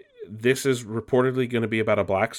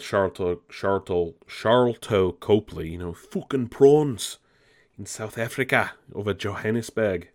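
bad South African accent. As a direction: imitate a South African movie character, badly. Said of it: "terrible South African accent".

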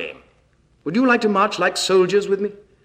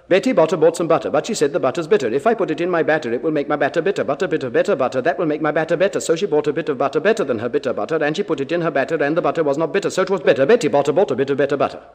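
quick rhythmic tongue twister; tongue twister rattled off fast; much faster than usual. Shown as a demonstration. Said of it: "keep time with this".

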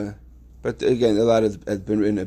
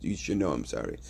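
dismissive mumble; 7 semitones lower, 11 dB quieter than usual. Retold or imitated. Not just.

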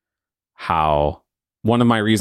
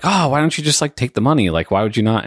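lightly imitated onlookers, pitched higher; puzzled onlookers; 6 semitones higher, faster than usual. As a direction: mimic people asking why not, starting high and easing down. Voicing puzzled people urging him.

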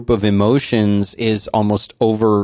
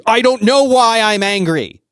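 much higher, louder mock kid voice; imitating angry son; 13 semitones higher, 3 dB louder than usual. Father imitating his upset son, high mock kid voice. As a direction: play the sulky boy who can't explain it.

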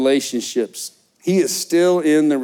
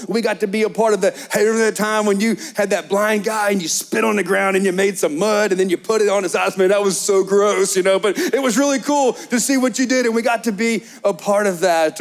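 higher, eager reminiscing as a disciple; excited disciple; 5 semitones higher than usual. Acted. Disciple reliving miracles with Jesus, higher and eager. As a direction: gush over the old miracles like a thrilled friend.

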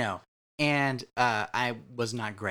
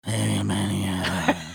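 mumbled cool dude; 5 semitones lower, much slower than usual. Retold or imitated. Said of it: "you think it sounds really great to be like".

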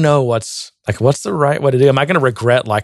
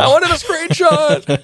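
high, drawn-out comic cry; mock frustrated wail; slower than usual. Co-host mimics John's thwarted screenshot, mock frustrated wail. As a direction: stretch it into a high-pitched pretend tantrum.

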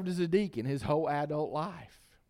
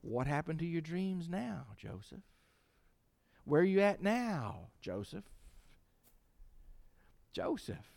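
mock enemy taunt; 4 dB quieter than usual.

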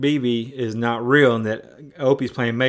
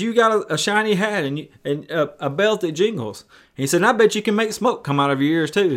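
higher, eager and amazed; delighted wonder; 4 semitones higher than usual. Retold or imitated. Father meeting the man from the trees, delighted. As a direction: imitate a man grinning as he marvels.

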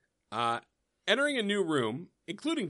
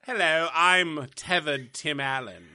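slow, eerie doppelganger voice; a slow, unsettling lookalike; creepy tethered voice; 4 dB louder, slower than usual. Pretend. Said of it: "the tethered version of Tim Allen".

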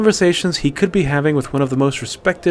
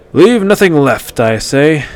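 louder, slow proclamation; mock-grand hunter; grand declaration; 3 semitones higher, 7 dB louder, slower than usual. A narrator's reading. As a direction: declare it boldly.

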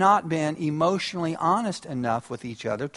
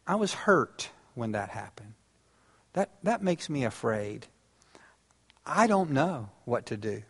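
sincere quiet confession; 5 dB quieter than usual. Shown as a demonstration. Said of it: "That emotional honesty to say".

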